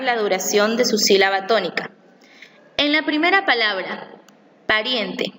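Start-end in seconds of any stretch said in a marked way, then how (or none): 4.7-5.3 pariente with the stress on rien; pariente, weight on the middle syllable rien. Shown as a demonstration. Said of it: "la sílaba tónica es riem".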